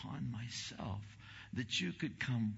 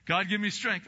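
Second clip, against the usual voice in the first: imitated plea; 11 semitones higher, 10 dB louder than usual. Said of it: "I hear you sometimes".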